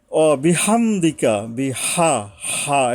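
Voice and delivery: slow recited bihamdika; slow recitation. Shown as a demonstration. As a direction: recite it slowly, stretching each syllable. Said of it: "তো আমি একটু পড়ি". (ধীরে তেলাওয়াত)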